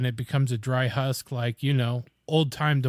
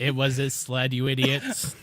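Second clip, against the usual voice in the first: sarcastic robot monotone. Pretend. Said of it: "Sarcastic robots that go see".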